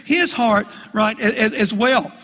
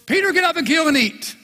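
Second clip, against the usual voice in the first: voice of God; 5 semitones higher than usual. Acted. Voice of God again.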